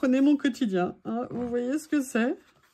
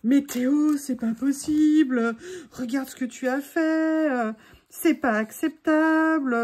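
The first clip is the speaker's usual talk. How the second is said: louder, slower playful scolding of the dog; mock-indignant scolding of the dog, a bit louder; mock scolding comment; 4 dB louder, slower than usual. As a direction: play a viewer telling off a naughty dog, half-joking. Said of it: "Si vous pouviez me mettre".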